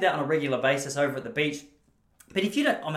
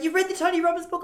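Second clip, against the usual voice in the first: much higher, sing-song lady voice; chirpy old lady; 4 dB louder than usual. Retold or imitated. Old lady greeting him at the beach, high and chirpy. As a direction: squeak it like a delighted old lady. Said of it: "She's like".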